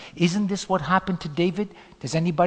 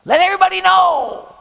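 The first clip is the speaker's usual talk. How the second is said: tempting devil; 4 semitones higher, 5 dB louder than usual. Acted. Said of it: "the devil tempted him".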